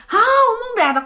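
giọng cao vút, mè nheo không chịu; giả giọng khóc. Retold or imitated. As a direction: vong nhập cãi lại, giả khóc. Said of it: "Khóc lên". (nhại giọng khóc lóc)

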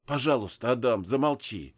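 ordinary delivery

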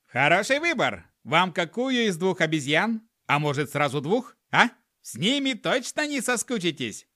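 cheerful shopkeeper pitch; perky. Acted. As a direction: sell it with a grin. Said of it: "задорно ответил он".

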